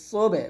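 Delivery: সোবে with a bounced ব; qalqala. Shown as a demonstration. Teacher drilling qalqala, সোবে with echoed ending. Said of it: "কলকলা".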